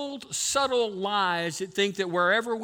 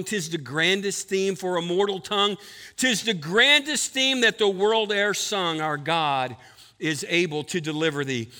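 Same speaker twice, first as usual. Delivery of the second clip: hymn recitation. Acted. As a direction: let each line of the old hymn ring.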